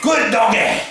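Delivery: put-on wandering, almost Australian Viking accent. Victor praising Godzilla, shifting Australian-like accent. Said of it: "his accent changes with the winds".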